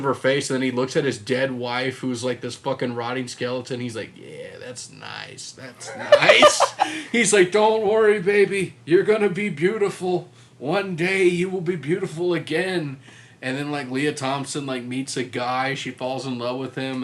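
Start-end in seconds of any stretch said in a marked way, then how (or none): 4.1-6.7 laughing creepy jeweler. Retold or imitated. Creepy jeweler admiring a cast. 7.5-13.0 mock creepy tender jeweler. Jeweler talking to dead wife.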